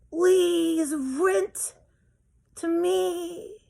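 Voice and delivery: high, slow, tearful pleading; begging tenant. Acted. Desperate renter begging the landlord, high and tearful. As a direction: beg with a crying voice to rent. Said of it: "She's begging me".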